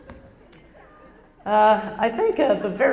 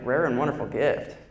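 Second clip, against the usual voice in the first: lower, mannish echo of the compliment; mock deep voice; 8 semitones lower than usual. Scoffing at the teacher's compliment, low and mannish. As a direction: drop it low like a man's voice. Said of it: "I'm like".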